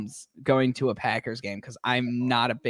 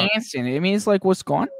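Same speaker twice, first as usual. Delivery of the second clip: mock Midwestern accent; 5 semitones higher, 3 dB louder than usual. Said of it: "Midwestern accent".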